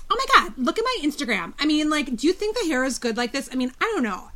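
mock the salon woman's lilting uptalk; valley girl imitation. Imitating the salon woman who drove her nuts, a mock valley-girl lilt. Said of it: "that inflection".

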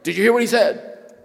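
high and loud call to the hall; calling to the crowd. Retold or imitated. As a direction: rouse five hundred students. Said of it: "he says".

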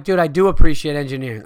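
loud, fast comeback; fast loud drunk insistence; drunk yelled retort. Retold or imitated. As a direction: bark it back at your buddy. Drunk argument, quoting himself.

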